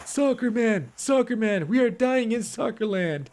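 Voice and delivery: over-the-top fake American twang; mock American accent. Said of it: "Look at me roasting".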